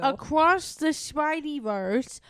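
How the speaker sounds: slow, drawn-out silly title; playful title drawl. Pretend. Co-host teasing with the film title, playful drawl.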